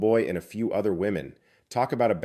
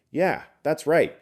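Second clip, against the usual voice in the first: high, slow nagging agreement; old lady voice; 8 semitones higher, 4 dB louder, slower than usual. Acted. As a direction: chime in like a busybody old lady.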